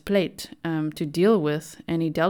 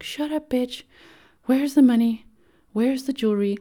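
put-on much higher and louder, a meek teenage boy's voice; naughty schoolboy; 7 semitones higher, 5 dB louder than usual. Ramirez repeating words in a lineup, naughty schoolboy voice. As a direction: squeak it out like a cheeky schoolboy. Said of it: "almost like a naughty schoolboy".

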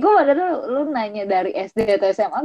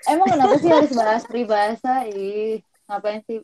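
echoing bathroom. Real, not acted. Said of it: "Dia suara bergema".

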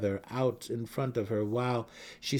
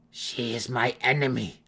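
louder, higher indignant protest; outraged; 7 semitones higher, 9 dB louder than usual. Acted. Malice protesting to Matron Banray, loud and indignant. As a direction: protest in disbelief.

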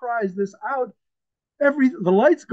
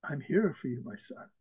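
soft, lowered fatherly voice; tender reassurance; 4 semitones lower, 10 dB quieter than usual. Acted. Preacher voices Abba answering his suffering son, tenderly reassuring. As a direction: reassure gently, much quieter and lower.

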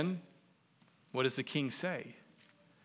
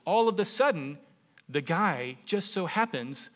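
dramatic build; 4 semitones higher, 6 dB louder than usual. Real, not acted. Dramatic turn in story.

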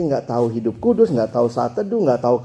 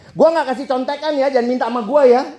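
smug announcement; 9 semitones higher than usual. Retold or imitated. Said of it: "dia berdiri".

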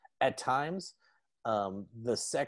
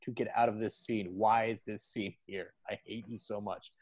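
loud, fast pleading rant; fed-up Speed; 3 dB louder than usual. Retold or imitated. Speed begging to get out of Lance's scene, exasperated. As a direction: beg to escape the scene. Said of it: "Speed is just like".

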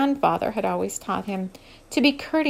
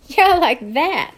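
put-on playful young woman; 5 semitones higher, 7 dB louder, slower than usual. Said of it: "laughing as she turned".

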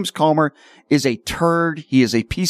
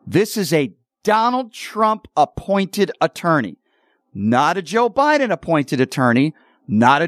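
slow, emphatic repeat, pitch raised, Donald hit hardest; 3 semitones higher than usual. Real, not acted. Host repeating the point for MAGA viewers, slow and emphatic. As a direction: hammer each word home the second time. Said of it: "Let me repeat that so you maga morons can get it through".

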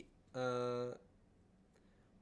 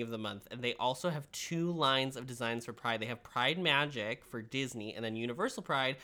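ad read. Acted. Reads sponsor ad.

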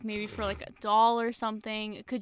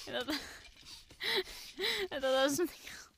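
whispering; 4 semitones higher, 9 dB quieter, much faster than usual. Real, not acted. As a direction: giggly whisper. Giggling embarrassed whisper.

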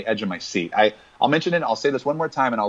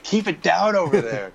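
raised, annoyed hush demand; grumpy moviegoer scolding; cranky neighbor; 6 semitones higher than usual. Pretend. Joining the mock shushing.

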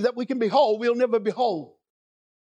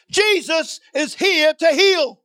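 louder and slow, each word landed; emphatic proclamation; 3 semitones higher, 4 dB louder, slower than usual. Acted. Preacher pressing an unexcited congregation, louder and slow. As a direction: declare it slowly over the room. Repeated louder to lukewarm crowd.

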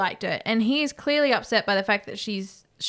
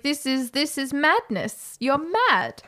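higher, slow, emphatic protest; mock disbelief; 4 semitones higher, slower than usual. Soldiers refusing Rob's plea, lightly acted incredulous protest.

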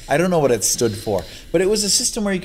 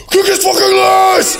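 high, loud yell through a laugh; laughing shout; 8 dB louder than usual. Retold or imitated. Roommate urging him to fight, a laughing high shout. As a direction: egg him on, roaring it with glee. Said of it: "And he goes".

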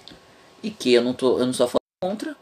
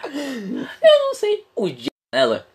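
mock tearful; 10 semitones higher, 3 dB louder, much slower than usual. Real, not acted. Half-laughing, cry heard, slow.

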